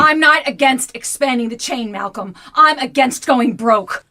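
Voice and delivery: wife snapping back at husband; firm angry retort. Acted. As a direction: plant your feet and refuse. Nancy retorts in the quarrel.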